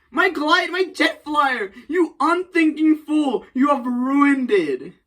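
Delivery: high, slow hammed-up lament; outraged villain. Norman wailing at Spider-Man over his glider, hammed-up. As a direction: wail over the broken toy.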